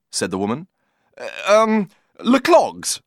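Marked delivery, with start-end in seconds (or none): 1.2-3.0 urgent broken French. Acted. Cyril pleading in broken French.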